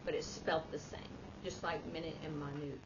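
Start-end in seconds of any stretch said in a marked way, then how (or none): 1.9-2.8 MIN-it, then my-NOOT for "minute and minute"; "minute and minute" as two different words, MIN-it and my-NOOT; contrasting pronunciations. Shown as a demonstration. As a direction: say "minute and minute" as time unit, then tiny. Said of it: "you say it differently".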